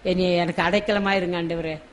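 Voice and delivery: soft, understated pleading to God; tearful prayer, understated. Acted. Preacher models a prayer asking God for refuge, softly pleading. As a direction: pray quietly, as if modelling a tearful plea. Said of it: "கண்ணீரோடு கேட்போம்".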